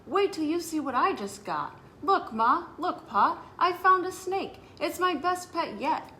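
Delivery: put-on a boy who can't wait to show his parents; eager child calling out to Ma and Pa; excited kid. Child shows off new snake.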